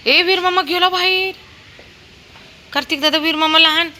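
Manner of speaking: high, loud calls; calling out. Real, not acted. Mother calling to toddler and dog outdoors, high loud calls.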